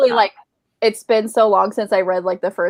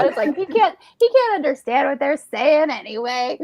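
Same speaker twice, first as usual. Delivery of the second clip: higher, laughing through it; can barely talk for laughing; 7 semitones higher than usual. Real, not acted. Telling friends about her husband, laughing.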